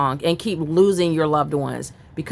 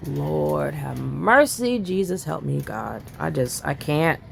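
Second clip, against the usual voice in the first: overwhelmed; 3 semitones lower, 5 dB quieter than usual. Real, not acted. Overwhelmed by the children's deaths.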